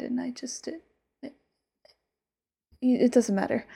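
intimate whisper, sweetly possessive; whispered yandere lover. Acted. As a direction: breathe it close to her ear like a devoted, obsessive lover.

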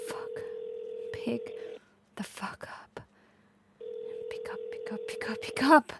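soft, half-whispered urging; impatient muttering. Acted. Girlfriend willing him to pick up, impatient muttering. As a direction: urge the phone under your breath.

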